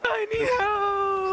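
panicked slow cry for help; frightened, pleading shout; scared horror game streamer. Real, not acted. Chased by enemy in game.

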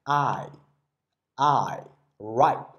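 I and ripe with a full gliding vowel; drawn-out diphthong. Shown as a demonstration. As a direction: model the diphthong in "I", "I", "ripe" for learners to repeat. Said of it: "双元音跟我读一下".

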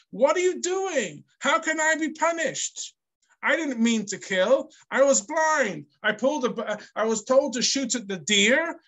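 facetious questioning. Retold or imitated. Teacher voicing Lamech's protest to his wives, mock incredulous. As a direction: play Lamech protesting his innocence with disbelief. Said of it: "he's saying it facetiously, questioningly".

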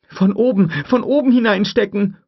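high, loud frantic order; urgent shout. A narrator's reading. Tim telling Lex how to insert the pin, urgent shout. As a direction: bark the instruction.

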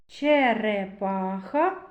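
Черепаха slowed, stretching the р; drawn-out sound analysis. Shown as a demonstration. Teacher to class, slowly sounding out Черепаха. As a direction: pull the word apart to pick out р. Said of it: "Робимо звуковий аналіз слова".

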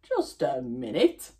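a hint of a suspicious wolf. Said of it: "said the wolf".

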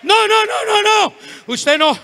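loud, high burst of protest; shouted refusal. Retold or imitated. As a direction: cut them off with loud, rapid-fire noes. Acted refusal in a retold confrontation. (negativa a gritos)

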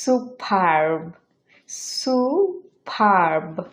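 superb said slowly with no r, as su-pahb; no r sound. Shown as a demonstration. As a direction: superb without the r, the vowel held long. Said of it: "র সাউন্ডটা pronounce হবে না".

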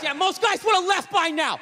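dad's catchphrase. Retold or imitated. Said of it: "one of his catchphrases".

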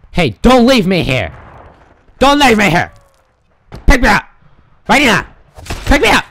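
loud pleading calls; calling out. Real, not acted. Gamer calling to teammates not to leave him, loud. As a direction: shout after the leaving ride.

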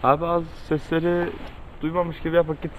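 scared hushed voice; hushed whisper. Real, not acted. Scared, whispering near haunted house.

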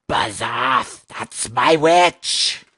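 loud yowling, growling beast; terrible monster voice. A narrator's reading. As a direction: roar it as a many-headed beast. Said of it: "And its terrible voice".

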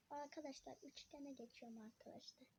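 breathy whisper to himself. Real, not acted. Kid drawing shapes, whispering to himself. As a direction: whisper it while you draw.

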